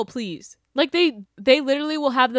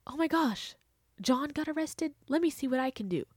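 mock follower voice; 4 semitones higher, 8 dB quieter than usual. Mocking followers' reaction.

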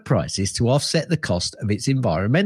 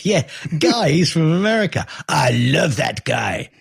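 high, hammed-up fake French accent; 4 semitones higher than usual. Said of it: "Stupid fake French accent".

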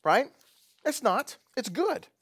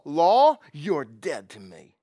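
slow mob-boss brush-off; cold Godfather voice, disowning the law; gangster impression; 8 dB louder, much slower than usual. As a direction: say it like a mafia don cutting someone off. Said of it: "That was my best gangster impression".

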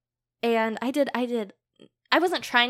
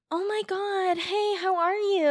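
mock friendly greeting; 9 semitones higher, slower than usual. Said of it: "and he's like".

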